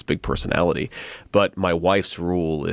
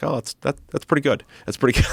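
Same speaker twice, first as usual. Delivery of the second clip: put-on higher, childlike approval with a laugh; little son's voice; 8 semitones higher, faster than usual. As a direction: play the seven-year-old, chuffed. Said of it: "And my son Ewan's like".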